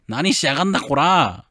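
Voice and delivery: rough shout. Acted. Character shoving off the rescuers.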